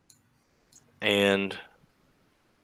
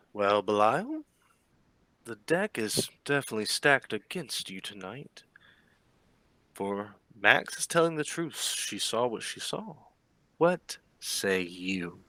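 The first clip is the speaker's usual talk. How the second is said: a measured Baron, drawing out the final question; the Baron, perplexed. Acted. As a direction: voice a perplexed baron with a lilting, deliberate delivery. Game master plays the Baron.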